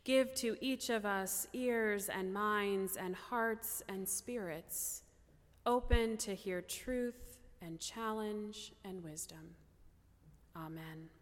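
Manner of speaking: slow, reverent prayer, softening at the amen. Real, not acted. Preacher praying for the congregation before the sermon, slow prayer. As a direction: pray with measured pauses, settling to a quiet close.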